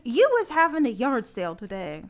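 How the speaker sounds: lightly put-on radio voice, punchy stresses; radio reading voice. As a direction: read the ad out in a performed radio voice. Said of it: "Where do you get that voice from".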